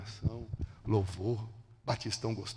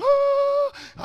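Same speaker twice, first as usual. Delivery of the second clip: high, loud imitation sob; mock crying wail; 9 dB louder than usual. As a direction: wail like three people weeping, hammed up. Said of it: "os três chorando". (choro imitado, agudo e exagerado)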